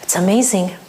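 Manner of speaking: wife gushing over her husband's nail; mock gushing praise. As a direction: lay the flattery on thick. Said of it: "You have to tell him".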